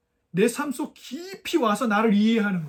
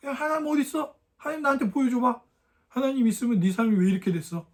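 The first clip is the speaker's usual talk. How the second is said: retold taunt, pitched up at the start; mocking; 4 semitones higher than usual. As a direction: lightly act out a jeering challenge. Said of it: "막 조롱하면서". (조롱하듯 흉내 내는 말투)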